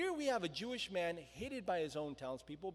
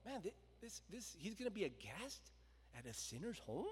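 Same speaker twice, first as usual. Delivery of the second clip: grumbling; 7 dB quieter than usual. Retold or imitated. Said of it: "they grumbled".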